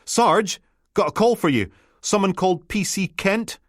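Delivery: a keen constable handing the sergeant a radio; eager young constable. Acted. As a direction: bounce in with the news. Tufty hands over a call.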